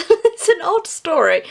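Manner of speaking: laughing while calling it odd. Real, not acted. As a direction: giggle through the remark. Amused by the odd story.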